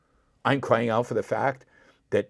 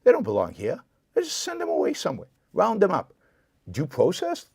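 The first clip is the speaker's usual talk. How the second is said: higher, scornful parody of a bigot; mocking anti-immigrant voice; 3 semitones higher than usual. Parodying what anti-immigrant voters say, in high mock scorn. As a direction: caricature the crowd with sneering lifts. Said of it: "People say".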